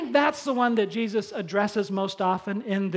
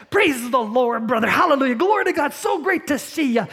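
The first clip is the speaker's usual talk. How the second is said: gushing, much higher and louder fake praise; creepy smiley churchgoer; 4 semitones higher, 5 dB louder than usual. Preacher imitates the plastic churchgoer at the door, over-sweet. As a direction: lay the sweetness on thick, grinning. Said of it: "You hear that".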